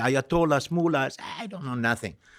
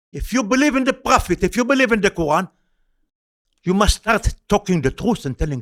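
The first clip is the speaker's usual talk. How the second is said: retold insistence; 5 semitones higher, 4 dB louder than usual. Retold argument, pressing the caller.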